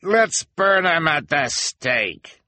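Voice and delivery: high, slow, eager voice; eager cry. A narrator's reading. Townsman calling for burning, eager cry. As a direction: relish it. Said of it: "cried a voice".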